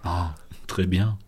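put-on slow, pursed-lips French accent; exaggerated French accent, lips pursed; mock French pout voice. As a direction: say it with a tiny pouting mouth, French style. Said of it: "als hätte ich eine ganz kleine Schnute".

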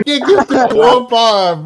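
mock whine. Mocking friend's pod demand.

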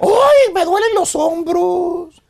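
slow, dragged-out complaining. Retold or imitated. Man listing his aches, slow mock complaining. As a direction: moan through each ache one by one, slowly. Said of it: "quejándose de que le duele la cabeza".

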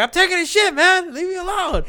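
high squeaky yell. Retold or imitated. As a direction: squeal it back in a silly voice. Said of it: "I'm like".

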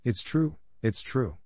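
tearful, first high then falling; crying in tears. A narrator's reading. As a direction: plead through a hint of tears. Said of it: "cried Pinocchio in tears".

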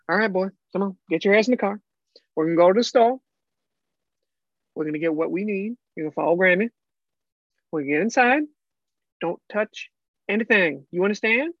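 lightly voiced stern grandma; a hint of a firm Southern grandma. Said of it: "You're gonna be my grandma".

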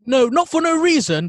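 usual speaking voice

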